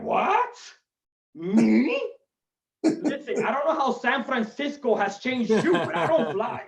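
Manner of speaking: lightly voiced indignant Spanish dad; high, incredulous "What?", then protesting; hammed-up macho father's refusal. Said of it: "I would just picture every Spanish dad".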